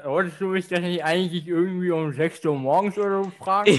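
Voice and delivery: talking around a cork in mouth. Real, not acted. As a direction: speak with a cork between the teeth. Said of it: "mit dem Korken im Mund zu sprechen".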